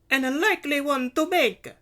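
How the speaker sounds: high, loud, scornful retort; spitting words. A narrator's reading. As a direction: spit it out with contempt. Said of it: "Carla spat".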